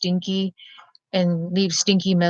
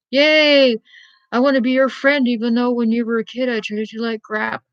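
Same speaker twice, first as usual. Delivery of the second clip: high, bouncy mock excitement fading off; mock gushing; 4 semitones higher than usual. Old bully gushing over her profile, high mocking glee. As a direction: mimic a fake-eager old bully. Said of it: "look at my profile and go".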